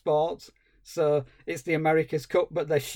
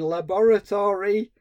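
higher, louder theatrical mad scientist; 5 semitones higher, 6 dB louder than usual. Retold or imitated. TV mad scientist spelling out the clue, theatrical. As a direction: stretch it out like a horror-film doctor. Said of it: "He's going".

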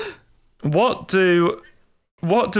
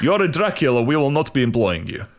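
vampire voice. Retold or imitated. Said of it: "in vampire voice".

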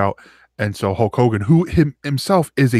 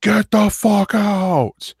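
much higher, slow drawn-out roar; furious roar; 11 semitones higher, much slower than usual. Retold or imitated. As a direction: stretch every word as a huge yell. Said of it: "He was like".

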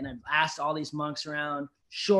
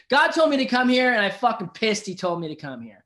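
higher, louder retold annoyance; mock exasperation; 7 semitones higher, 8 dB louder than usual. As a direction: imitate someone resentfully following orders. Voices the monk's resentment, paraphrased.

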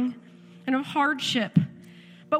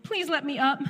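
put-on pleading child; 3 semitones higher than usual. Daughter begging parents to stop the procedure, imitated pleading. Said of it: "this child is begging us".

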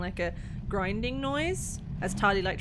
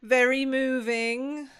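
slow, raised call, drawn out; calling back; 5 semitones higher, 6 dB louder, much slower than usual. Acted. Tali to the others from the dome, calling back. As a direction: call it out slowly, higher and louder. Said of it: "Tali calls back from the dome".

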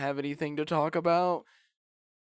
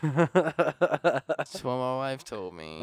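laughing; much slower than usual. Real, not acted. Laughing reply to wife's saying.

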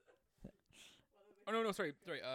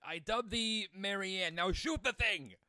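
mock royal dubbing, louder; solemn regal knighting; 6 semitones higher, 7 dB louder than usual. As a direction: dub them like a queen. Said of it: "do the Queen knighting symbol".

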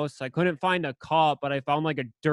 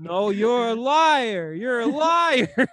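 high, slow, drawn-out whiny denial; mock protest; 7 semitones higher, 4 dB louder, much slower than usual. Retelling himself denying it to friends, mock protest. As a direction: imitate a wronged kid, dragging out each word.

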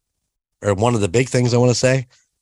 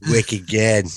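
mock Boston accent at an easy volume. Host having a go at the menu line, mock Boston accent. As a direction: lightly put on a Boston accent. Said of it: "Boston accent for me?".

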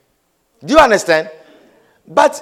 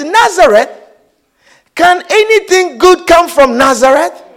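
raised, emphatic disbelief; incredulous exclamation; 3 semitones higher, 3 dB louder than usual. Retold or imitated. Preacher replaying Nathanael's answer to Philip, exclaiming C=79. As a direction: exclaim it as a scornful question. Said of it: "exclaimed Nathanael".

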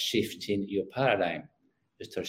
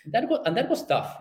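laughing; 11 semitones higher than usual. Real, not acted. Laughs at son's remark.

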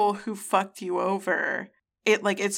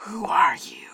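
mock whisper. Mock reaction to the reading.

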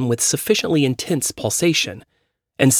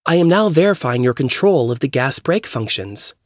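lightly voiced car computer; even automated system readout; robot voice; 3 semitones higher than usual. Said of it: "the voice said".

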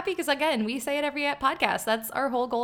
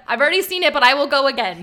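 loud, mildly robotic retold reply; 7 dB louder than usual. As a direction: mimic a slightly robotic answer. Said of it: "It was very robotic".

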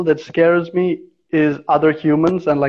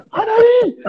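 a higher, more insistent call of "Anadi"; coworker's second, more pressing call up the tree; urgent call; 4 dB louder than usual. Retold or imitated. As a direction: call his name again, now urgent, falling off the end. Coworker calls again, more urgently.

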